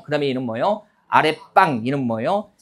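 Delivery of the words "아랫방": 아랫방 said as a-raet-ppang, tense pp; 아랫방 with a hard, tensed last syllable; demonstrated pronunciation. Shown as a demonstration. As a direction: show the tense pp sound in 아랫방. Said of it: "이렇게 발음이 되는".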